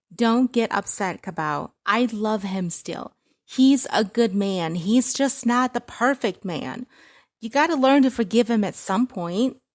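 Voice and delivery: high, loud, slow coaxing; coaxing mother. Acted. Mother pleading for son-in-law.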